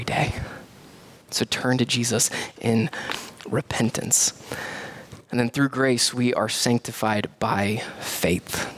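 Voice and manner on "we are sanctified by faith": slow hushed whisper; a pastor closing a point in a whisper. Real, not acted.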